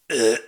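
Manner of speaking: short mock burp grunt; a quick guttural ugh like a burp; burp sound. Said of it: "the sound of me going".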